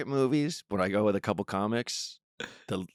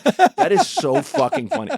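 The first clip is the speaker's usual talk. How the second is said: high, slow squealing delight; 6 dB louder, slower than usual. Retold or imitated. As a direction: squeal it with glee. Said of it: "And I'm like".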